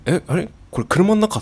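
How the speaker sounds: rising startled disbelief; surprised. Retold or imitated. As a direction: sound suddenly startled and baffled. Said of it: "って思うぐらいの時ありましたもん". (驚いて声が上がる)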